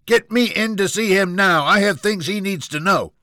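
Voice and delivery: high-pitched, entitled outburst at full volume; furious scream. Acted. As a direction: scream it high and loud in a temper. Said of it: "jumped out of his seat and screamed".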